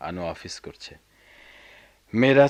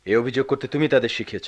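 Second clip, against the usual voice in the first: quick, higher-pitched marital accusation; raised-voice accusation; 4 semitones higher, faster than usual. Acted. Husband blames wife for the children's complaints, raised voice. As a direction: fire the blame back fast. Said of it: "চুপ করো, চেঁচিও না".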